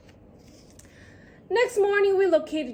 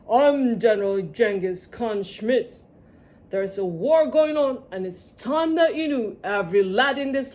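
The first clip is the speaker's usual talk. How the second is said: bellowed; 3 semitones lower, 3 dB louder than usual. Acted. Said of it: "He bellowed".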